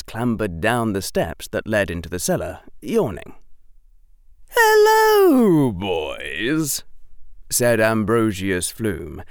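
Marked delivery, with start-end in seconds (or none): 4.5-6.8 put-on much higher, louder creaky old man greeting; old shopkeeper. Old shopkeeper woken at night.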